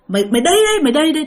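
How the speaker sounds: a father chasing the ghost from his door; angry chasing off. Retold or imitated. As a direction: drive the ghost off in anger. Angry man drives ghost away.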